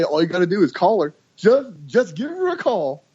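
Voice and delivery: high, fast coaxing heart voice; voicing the heart. Friend voices his heart telling him to call.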